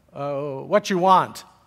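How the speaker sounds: slow, put-on Greek accent. Retelling what a restaurant waitress said: imitating a greek waitress's accent. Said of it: "forgive the accent I'm about to do".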